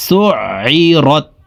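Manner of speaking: "সুআইরত" slowly, closing on an unvowelled t; final ta held once. Shown as a demonstration. Teacher showing jazm on ta, "সুআইরত" ending in a single t. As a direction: say "সুআইরত" drawn out, then stop on the t. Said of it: "জাজমওয়ালা তাকে একবার ধরবে".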